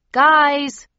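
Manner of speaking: loud urgent call; pleading call. Acted. Pleading with friends.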